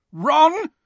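high, urgent yell of a name. A narrator's reading. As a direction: call out sharply for a friend. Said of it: "Harry yelled".

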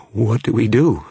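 high, loud, frightened plea; shaking voice. A narrator's reading. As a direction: ask in mounting panic. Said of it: "His voice was shaking".

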